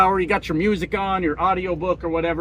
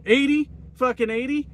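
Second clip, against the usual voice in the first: imitated angry dad; 7 semitones higher than usual. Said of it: "he's losing his shit out there".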